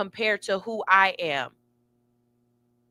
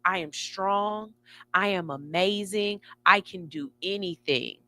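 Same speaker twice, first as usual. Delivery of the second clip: affirmation; 4 dB quieter than usual. Shown as a demonstration. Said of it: "that voice that says".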